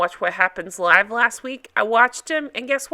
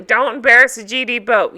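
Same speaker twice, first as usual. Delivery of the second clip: Captain Lee impression; 7 dB louder than usual. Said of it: "doing my Captain Lee".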